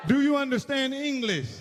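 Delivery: exasperated cop. Retold or imitated. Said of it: "when the police pull up".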